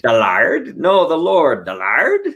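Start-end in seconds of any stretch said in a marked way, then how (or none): 0.0-0.8 put-on pirate accent. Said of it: "they're like". 1.7-2.2 put-on pirate accent. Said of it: "they're like".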